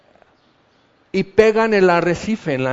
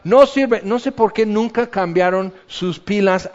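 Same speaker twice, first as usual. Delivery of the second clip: panicked engineer; 2 semitones higher than usual. Retold or imitated. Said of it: "aquí abajo con las máquinas está".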